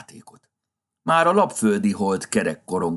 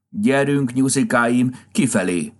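loud command; 6 semitones higher, 4 dB louder than usual. A narrator's reading. Santa chasing rabbits out.

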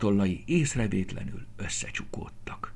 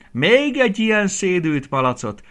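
high, loud fond exclamation; laughing exclamation; 11 semitones higher, 8 dB louder than usual. A narrator's reading. Aranka néni exclaiming fondly at her messy piglet, high and loud. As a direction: cry out fondly at the silly pig. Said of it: "kiáltotta nevetve".

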